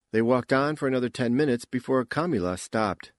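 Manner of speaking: usual speaking voice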